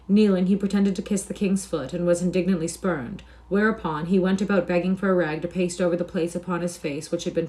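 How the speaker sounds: clear, measured storybook reading; story narration. A narrator's reading. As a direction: narrate with crisp, projected diction. Reads the story aloud.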